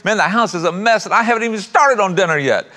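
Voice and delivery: a hint of a tearful daughter pouring out her troubles; mock tearful daughter. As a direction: play a frazzled mom near tears, half in fun. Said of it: "the mom just burst into tears".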